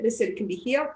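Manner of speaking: normal talking voice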